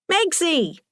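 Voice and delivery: high-pitched call of a pet name; delighted greeting. A narrator's reading. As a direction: greet your daughter, pitched well up. Mother greets visiting daughter.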